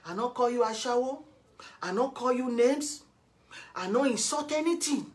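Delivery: insistent, rising list of denials; indignant denial. Real, not acted. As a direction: protest your innocence item by item.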